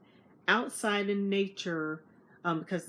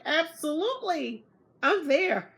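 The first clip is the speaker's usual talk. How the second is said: high, loud, eager acceptance; excited yes; 9 semitones higher, 5 dB louder than usual. Retold or imitated. Narrator accepting her friend's dinner invite, thrilled.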